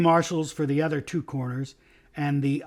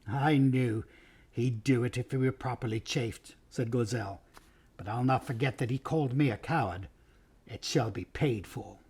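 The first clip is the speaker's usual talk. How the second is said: quiet scheming; 2 semitones lower, 5 dB quieter than usual. Acted. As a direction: murmur it with a grudge. Lords plotting in low voices.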